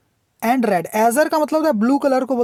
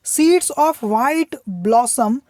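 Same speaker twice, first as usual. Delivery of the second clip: poem reading; much slower than usual. Shown as a demonstration. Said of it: "teacher reads poem line slowly".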